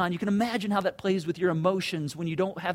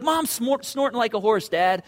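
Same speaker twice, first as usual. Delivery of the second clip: put-on excited kid tattling; 3 semitones higher, 7 dB louder than usual. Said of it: "my kids were to come in and be like".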